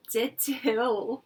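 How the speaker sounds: put-on a toddler talking back; defiant little girl. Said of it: "Jeannie said".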